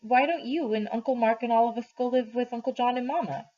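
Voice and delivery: put-on a child's hopeful question; lightly voiced young boy; child asking. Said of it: "Then he says".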